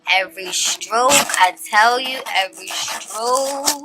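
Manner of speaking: slow, drawn-out rave; gushing. Real, not acted. Reader admiring the card's artwork to viewers, gushing. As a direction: stretch the last word out admiringly.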